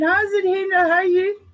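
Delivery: South African greeting, high and loud; hearty Afrikaans hello; Afrikaans accent. Retold or imitated. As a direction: lay on a thick Afrikaans accent. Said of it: "perfect Afrikaans cat accent".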